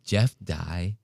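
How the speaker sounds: hushed, gossipy hush on in therapy; mock whisper. Host mocking Ben's secretive tone, hushed gossip voice. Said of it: "why are you whispering this".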